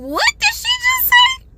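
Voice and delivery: high, squeaky shock; can't believe what she just heard; stunned disbelief. Retold or imitated. A woman in Walmart, hearing the slur, in high-pitched shock.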